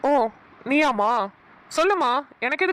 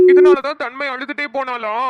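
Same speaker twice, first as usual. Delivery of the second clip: loud realization; 7 dB louder than usual. Acted. Sudden realization after call.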